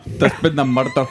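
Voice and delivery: lightly put-on North East accent; mock North East accent. Shown as a demonstration. Joining in the accent game, North East accent. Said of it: "North East accent".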